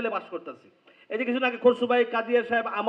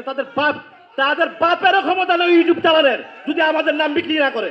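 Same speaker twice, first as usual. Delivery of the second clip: angry outburst; 3 semitones higher, 6 dB louder than usual. Real, not acted. Defiant rant against bad YouTubers.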